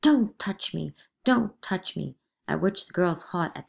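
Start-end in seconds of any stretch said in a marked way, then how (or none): 0.0-2.2 loud horrified cry; Mary screaming at Proctor in horror. Acted. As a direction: scream at him to keep away. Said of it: "screaming in horror".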